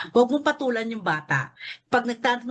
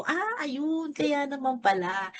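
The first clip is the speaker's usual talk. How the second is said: understanding parent; 5 semitones higher, 4 dB quieter, slower than usual. Acted. Parent hearing who bit the child, softly understanding. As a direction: gently acknowledge it, starting high and soft.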